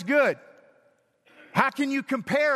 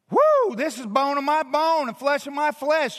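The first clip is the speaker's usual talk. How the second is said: higher, bright with wonder; delighted Adam; 4 semitones higher than usual. Retold or imitated. Adam seeing Eve, higher excited exclamation. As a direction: marvel at her. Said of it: "Adam says".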